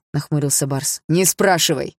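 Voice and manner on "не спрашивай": a sharp, louder bark; gruff father barking; barked order. Acted. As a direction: snap at him to stop asking. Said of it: "рявкнул старик".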